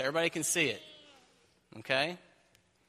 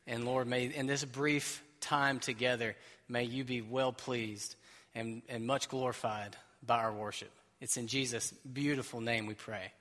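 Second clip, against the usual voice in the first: prayer; 3 semitones lower than usual. Real, not acted. Opening prayer.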